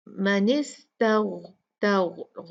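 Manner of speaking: तग with a thick, throaty gh; heavy ghain. Shown as a demonstration. Quran teacher showing the heavy letter ghain, slow. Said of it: "गॉइन heavy letter है".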